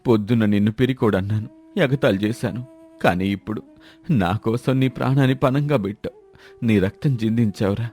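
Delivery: subdued, remorseful gratitude; humbled, emotional. Acted. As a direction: plead humbly, moved by the rescue. Humbled man clutching his rescuer's feet.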